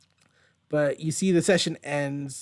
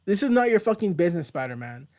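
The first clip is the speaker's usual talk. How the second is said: angry Cloak; 5 semitones higher than usual. Retold or imitated. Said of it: "Cloak is just like".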